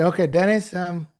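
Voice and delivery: a light touch of sarcastic impatience; American sarcasm. Retold or imitated. American friend teasing Dennis, lightly sarcastic. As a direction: needle him with mild sarcasm. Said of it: "American sarcasm".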